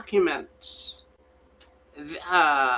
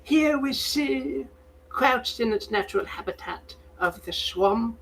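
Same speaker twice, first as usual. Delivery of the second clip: David Attenborough; 6 semitones higher than usual. Acted. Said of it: "supposed to sound like David Attenborough".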